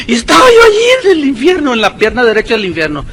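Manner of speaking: voz aguda y llorosa de joven; joven narrando con llanto. Retold or imitated. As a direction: imitar a una joven que narra llorando. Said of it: "aparentemente es una joven narrando". (burla de una joven llorosa que narra)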